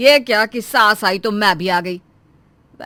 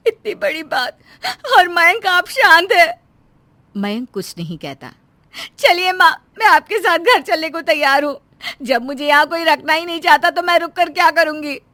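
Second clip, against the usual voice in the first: higher, crying voice, hurt; tearful; 5 semitones higher than usual. Acted. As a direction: plead through tears to go home. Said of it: "Romila शांत हो जाती है और रोने लगती है।".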